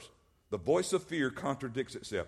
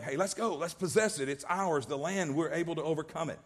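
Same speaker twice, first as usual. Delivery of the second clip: eager call to go; 4 semitones higher than usual. Retold or imitated. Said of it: "So here's Caleb saying".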